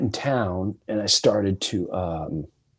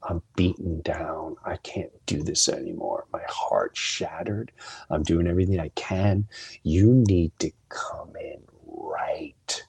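beaten-down prayer retold, fading to a near whisper; retold sobbing plea; 4 semitones lower, slower than usual. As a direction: imitate a desperate plea to God, slow with breathy drops. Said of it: "I mean, I'm sobbing".

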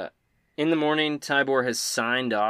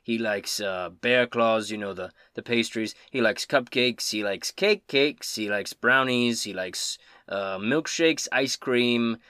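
Tybor; 3 dB louder, slower than usual. Acted. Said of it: "Tybor says".

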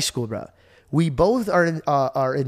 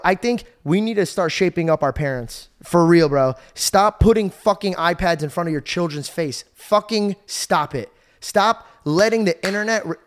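raised, forceful preaching at parents; powerful rant; 3 semitones higher, 4 dB louder than usual. Real, not acted. Fired up, scolding parents on a podcast. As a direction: hammer the point home to parents. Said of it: "I'm in a very powerful mode right now".

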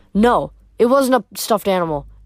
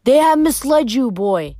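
cold ancient voice; 3 semitones higher than usual. Acted. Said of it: "The voice felt ancient, cold and heavy".

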